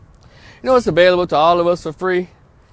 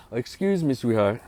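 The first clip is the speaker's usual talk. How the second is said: polite retold request; 5 semitones lower, 5 dB quieter than usual. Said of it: "very politely".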